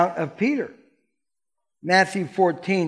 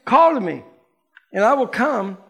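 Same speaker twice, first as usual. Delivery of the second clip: bold Peter; 5 semitones higher, 4 dB louder than usual. A narrator's reading. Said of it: "Peter, suddenly bold".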